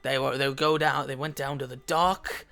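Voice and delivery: put-on a drunk stranger chatting, loud at first, then easing off; overheard drunk stranger. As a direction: voice a tipsy man sharing rumors. GM voicing overheard NPC.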